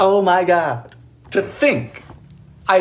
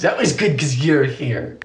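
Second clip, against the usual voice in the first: slow, low, overly sweet praise; syrupy slow teacher inflection; creepy-nice kindergarten teacher; 4 semitones lower, slower than usual. Acted. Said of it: "slightly creepy, nice inflection".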